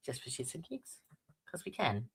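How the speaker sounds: unvoiced cheeky whisper; cheeky whispered aside to chat. Real, not acted. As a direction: breathe the aside as a secret.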